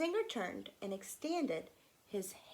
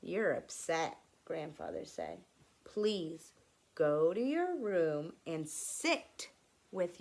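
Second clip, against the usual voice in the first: 穏やかな祖父; 2 semitones lower than usual. Acted. Grandfather sends upset boy off calmly.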